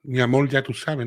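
slow Cuban lilt, R turned to L in "amor"; Cuban accent. Shown as a demonstration. Streamer showing viewers the relaxing Cuban accent, imitated Cuban accent. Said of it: "el acento cubano es la hostia".

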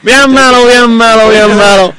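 muy aguda y fuerte; voz chillona. Acted. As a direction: chillar como personaje cómico. (voz aguda de broma)

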